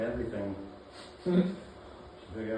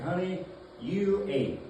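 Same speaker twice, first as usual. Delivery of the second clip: awkward hype-man compliment; 3 semitones higher than usual. Retold or imitated. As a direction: draw out the compliment, half-convincing. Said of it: "the way that gay men talk to women".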